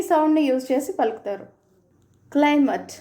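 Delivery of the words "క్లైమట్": క్లైమేట్ ending in schwa, "KLY-muht"; క్లైమేట్ with a light "uh" in the last syllable; American schwa variant. Shown as a demonstration. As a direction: weaken the end of క్లైమేట్ to "-muht". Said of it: "light శ్వా sound".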